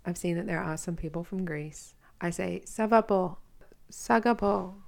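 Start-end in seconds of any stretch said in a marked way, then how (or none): 2.7-4.8 Greek phrase with an Australian accent, slightly raised; Greek in an Aussie accent. Real, not acted. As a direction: say the Greek in a broad-vowelled Aussie way. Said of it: "saying it in my Aussie accent".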